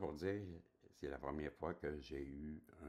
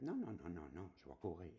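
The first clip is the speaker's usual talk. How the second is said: put-on child insisting; 4 semitones higher than usual. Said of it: "je me dis ça dans ma tête".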